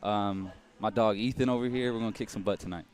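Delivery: hyped-up shout-outs; cocky breathless boxer boasts. Real, not acted. Fighter's pre-fight shout-outs.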